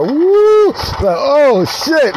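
a sudden high hype shout; excited whoop. Acted. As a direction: whoop like you just got away with it. Whoop after joke.

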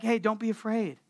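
mock-casual angel telling him not to worry. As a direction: toss it off like it's nothing. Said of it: "they're just so casual".

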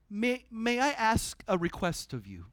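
mildly courteous, like a proper Brit; so polite. Retold or imitated. Paul politely asking the Roman commander, a touch British. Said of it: "So, so British".

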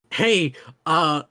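a playful sylvan daring Geralt to a riddle; mock riddle challenge. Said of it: "where it's like".

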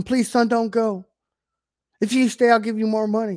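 mock begging father. Preacher voices a father begging his son to stay, mock pleading. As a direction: plead like a desperate dad, mockingly.

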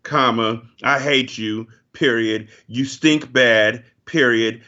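hammed-up letter dictation, each line ending in a dull period; slow mock dictation with a flat period after each line; mock letter reading. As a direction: read a petty letter aloud, slowly, deadpan. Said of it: "It was basically like".

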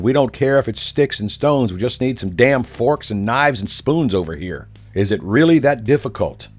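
exasperated retold shout. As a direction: shout across the room, out of patience. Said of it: "I shouted".

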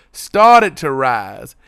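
very slow, every word stretched; drawn out. Shown as a demonstration. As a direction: drag out started to rise. Repeats the phrase, drawn out.

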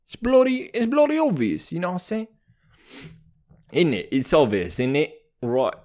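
put-on British slang accent. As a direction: play it British, with casual tag questions. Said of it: "It's British".

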